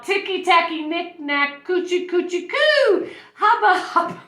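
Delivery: high, loud burst of nonsense words; excited little girl letting silly words fly; blurted out. A narrator's reading. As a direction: blurt it high, stretching the last sounds. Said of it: "blurted out".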